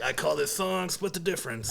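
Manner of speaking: a hint of mock gravel in the voice; gravelly voice. Guitarist introducing his song to friends, mock gravelly voice. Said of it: "doing that little gravelly voice".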